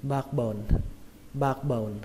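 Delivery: "backbone" with no released K in the middle; quick backbone, K dropped. Shown as a demonstration. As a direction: run "backbone" together, skipping the K sound. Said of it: "đọc nhanh thì các bạn không cần âm K". (đọc nhanh "backbone", bỏ âm K)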